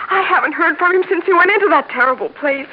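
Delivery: tearful, voice breaking on the words; fighting back tears as she explains; crying. Acted. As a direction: near tears over her husband in prison. Frightened wife fears husband.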